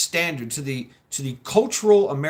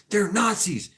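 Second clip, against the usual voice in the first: higher-pitched mimicked accusation; mock accusing protesters; 6 semitones higher than usual. Speaker imitating protesters throwing labels at a woman, mock accusing. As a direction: lightly mimic an outraged protester.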